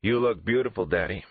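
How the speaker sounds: a brother imitating his sister's flattery; lightly hammed-up sing-song copy; mocking mimic. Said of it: "Damon mimicked his sister".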